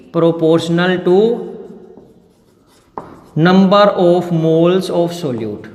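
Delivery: very slow and deliberate, each word spaced; slow dictation. Shown as a demonstration. Chemistry teacher dictating the law to students, slow and spaced. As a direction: dictate it so the class can copy.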